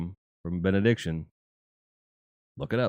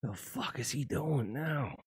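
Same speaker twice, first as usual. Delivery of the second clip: mock wife; 5 semitones higher, 10 dB quieter, slower than usual. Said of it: "she's at her computer going".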